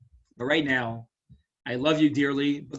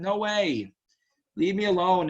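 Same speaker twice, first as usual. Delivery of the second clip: exasperated refusal; 5 semitones higher than usual. Acted. Old Naomi pushing her daughters-in-law away, exasperated. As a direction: pitch jumps up, half-mock exasperated no.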